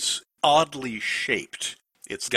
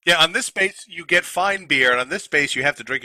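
excited joking; 5 semitones higher, 4 dB louder than usual. Pretend. Joking about drinking game spaces.

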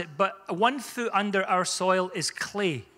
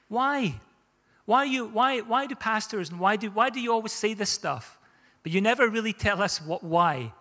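mock frustrated question; 3 semitones higher than usual. Voicing congregation's complaint.

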